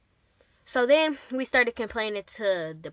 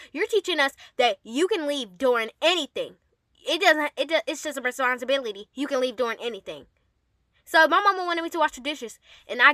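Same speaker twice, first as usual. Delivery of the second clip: frustrated rant; 4 semitones higher, 4 dB louder than usual. Real, not acted. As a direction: vent it, getting worked up. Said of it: "I just get frustrated every time".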